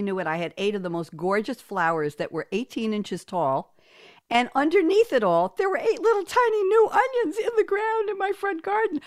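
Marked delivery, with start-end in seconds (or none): 4.3-9.0 high, louder burst of excitement; amazed delight. Real, not acted. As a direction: marvel at it, voice soaring well up. Amazed punchline of onion story.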